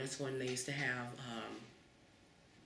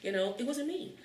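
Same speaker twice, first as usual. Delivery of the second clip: loud, laughing recollection; 6 semitones higher, 8 dB louder, slower than usual. Real, not acted. Telling the interviewer about the old accusation, laughing.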